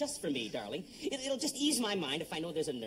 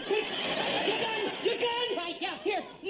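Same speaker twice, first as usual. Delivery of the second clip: much higher, loud panicky goofball yell; dopey cartoon bellow; 4 dB louder than usual. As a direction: yell like a flustered cartoon dimwit. Trainee panics over gun.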